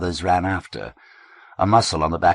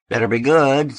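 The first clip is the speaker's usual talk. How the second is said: affably; 9 semitones higher, 7 dB louder than usual. A narrator's reading. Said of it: "affably enough".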